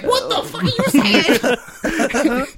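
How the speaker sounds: high, drawn-out outraged squeal; mock freak-out. Retelling her reaction to the threesome offer, mock freak-out. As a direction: exaggerate her disbelief in a high voice. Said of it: "she flips out".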